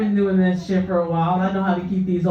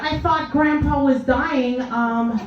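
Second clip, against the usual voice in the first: slightly put-on, slow, higher-pitched complaint; complaining family member; 6 semitones higher, slower than usual. Family member to nurse about Grandpa coming home, mock disappointed. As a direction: lightly voice a disappointed relative, pitch climbing. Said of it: "They're like".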